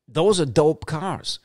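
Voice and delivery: drawn out, relishing every word; slow and admiring; slow savoring. Real, not acted. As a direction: savor it slowly like a dream car. Savoring repeated praise of cars.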